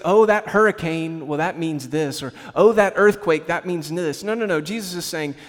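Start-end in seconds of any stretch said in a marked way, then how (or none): 0.0-2.2 mocking know-it-all. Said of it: "the people that try to say". 2.5-4.2 mocking know-it-all. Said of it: "the people that try to say".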